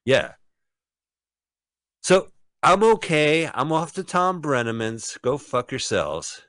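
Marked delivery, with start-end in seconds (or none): 2.0-6.4 put-on old lady voice. Voicing the old lady again.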